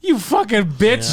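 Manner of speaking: imitating commercial abuser. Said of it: "How amazing is that commercial?".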